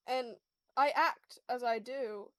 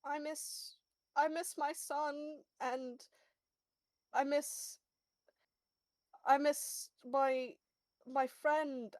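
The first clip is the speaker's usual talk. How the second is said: tearful; 4 dB quieter, slower than usual. Acted. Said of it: "literally wiping tears from his face".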